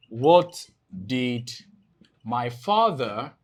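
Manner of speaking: spaced-out words, held for writing; slow dictation. Real, not acted. Teacher writing out option for class, slow dictation. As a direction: dictate slowly, phrase by phrase.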